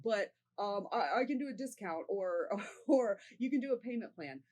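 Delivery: high, loud, flustered rush; nervous blurting. Shown as a demonstration. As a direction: babble out of nerves. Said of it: "very hard not to feel nervous".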